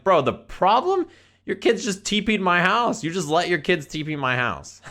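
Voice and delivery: high-pitched, incredulous complaint; retold indignant protest; indignant disbelief. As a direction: throw his question back at him, outraged. Retold confrontation with the dad.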